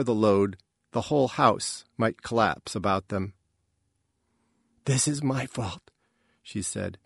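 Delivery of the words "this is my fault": softer, higher mother's voice; self-blaming mother. A narrator's reading. Mother taking the blame, soft and dejected. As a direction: confess it softly.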